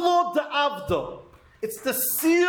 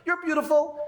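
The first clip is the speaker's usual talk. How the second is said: lightly voiced parrot, a little higher; a hint of a parrot saying its trained line; 3 semitones higher than usual. Teacher likening mindless prayer to a parrot, lightly mimicked. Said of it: "You sound like a parrot".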